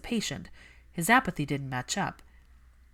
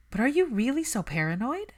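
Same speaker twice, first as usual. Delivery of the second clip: exasperated challenge; 7 semitones higher, 4 dB louder than usual. Acted. Heated exchange with Malfoy.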